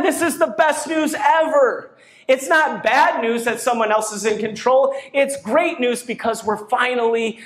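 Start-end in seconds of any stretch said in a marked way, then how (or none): 0.0-1.9 1 joyful proclamation. Real, not acted. Pastor exults to congregation.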